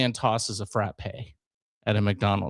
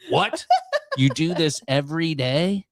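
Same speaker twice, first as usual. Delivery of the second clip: jumps high on "What?" in retold amazement; shocked disbelief; 4 semitones higher than usual. Owner finds her cook vomiting daily, astonished high question. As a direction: play the stunned restaurant owner. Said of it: "And she went".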